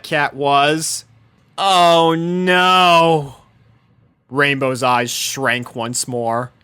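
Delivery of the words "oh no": loud higher dismay; dismayed gasped oh no; horrified. Acted. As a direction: realize disaster. Horrified realization.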